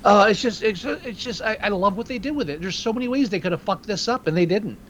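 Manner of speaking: choked-up and emotional; fighting back tears while praising; teary. Real, not acted. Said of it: "I'm getting, like, teary here".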